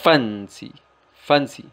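Fancy with the weight on Fan; stress on first syllable. Shown as a demonstration. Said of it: "fuerza o acentuación sobre la primera sílaba". (acento en la primera sílaba de Fancy)

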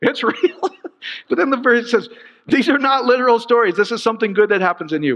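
high-pitched insistence, easing down toward the end; worked up. Real, not acted. Pastor correcting a literal reading, worked up. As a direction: argue excitedly, then come back down. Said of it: "I'll get all worked up again".

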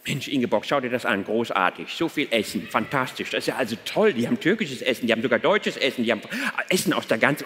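low-voiced husband marvelling to his wife; awed tourist husband, pitched well down; German tourist husband. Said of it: "So ein typisch deutsches Ehepaar".

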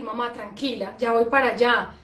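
calm and steady, no drama; calm reassurance. Shown as a demonstration. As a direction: settle your mother down gently. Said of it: "Ahora sabemos que decir".

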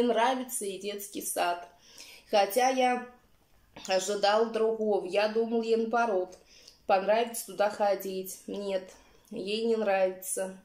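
speaking with food in mouth; mumbled through chewing; chewing while talking. Real, not acted. Seen 0: Eats from bowl throughout; jaw shows chewing between words.

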